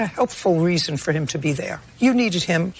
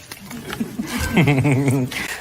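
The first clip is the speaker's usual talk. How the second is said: short laugh; 5 semitones lower than usual. Real, not acted. Judge laughs after cheer.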